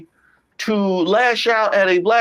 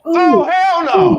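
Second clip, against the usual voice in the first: high, loud, slow "Oh, hell no"; outraged exclamation; 9 semitones higher, 6 dB louder, much slower than usual. Real, not acted. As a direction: stretch it out in outraged disbelief. Reacting to the clip.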